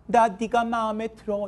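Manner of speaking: high, slow, level sing-song; acted confession. Teacher showing girls how to approach a boy, drawn-out confession. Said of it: "이렇게".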